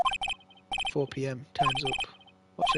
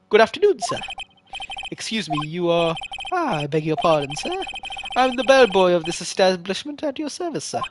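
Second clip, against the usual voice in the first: higher, prim hotel bellboy voice; bow and scrape as the eager bellboy; a courteous bellboy greeting the guest, lightly higher voice; polite bellboy; 3 semitones higher than usual. Acted.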